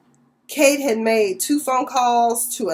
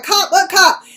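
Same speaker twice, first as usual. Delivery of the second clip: high, louder startled question; surprised; 8 semitones higher, 6 dB louder than usual. Retold or imitated. Amanda hears Danny is a cop, startled and high. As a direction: Amanda jolts at the news, much higher.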